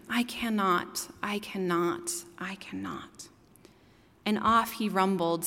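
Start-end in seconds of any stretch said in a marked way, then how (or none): 0.1-3.3 fading whisper, each softer; whispered refusal. A narrator's reading. Tired old engine refusing the toys, fading whisper. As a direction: whisper it away to nothing.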